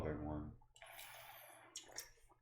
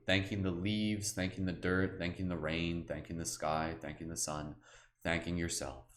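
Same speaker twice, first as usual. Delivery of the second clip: guided meditation. Acted. Guide listeners through the forest, in a calm meditation voice. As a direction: ease them gently through the scene.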